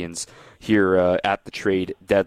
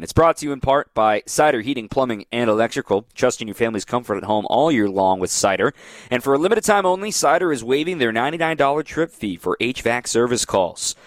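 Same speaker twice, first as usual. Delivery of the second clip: ad read. Acted. Live sponsor read.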